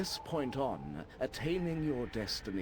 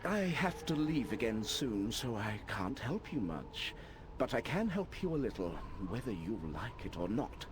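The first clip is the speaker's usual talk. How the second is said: lightly voiced old wizard; old man voice. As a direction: read it as a wise old man. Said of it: "my old man voice".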